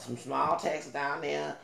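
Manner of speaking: slow small-town Texas delivery, lingering on "small"; lightly imitated Texas speech; imitating her Texas talk. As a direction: mimic the woman's Texas way of talking, slowly. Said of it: "this is how she talked".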